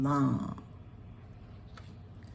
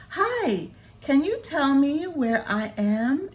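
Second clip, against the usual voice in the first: put-on high, bright little-girl voice; a small lost butterfly asking for help; 8 semitones higher, 3 dB louder than usual. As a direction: pitch way up as a tiny butterfly. Tiny the butterfly asks.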